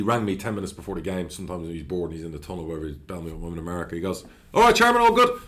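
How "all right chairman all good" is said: high, loud cheery hello from the boss; breezy manager greeting. Retold or imitated. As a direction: toss it off, carefree and chirpy. Manager calls before kickoff.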